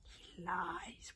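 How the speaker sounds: high airy dragon whisper. Acted. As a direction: breathe it out high and secret. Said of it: "whispered Stormfly and Dragonese".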